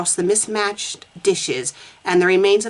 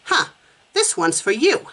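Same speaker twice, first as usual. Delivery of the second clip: put-on slightly better Boston accent; 3 semitones higher than usual. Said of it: "that's a little bit better".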